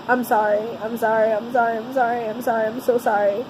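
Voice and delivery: low, hushed string of repeated apologies; retold hysterical apology. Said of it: "and I was hysterical".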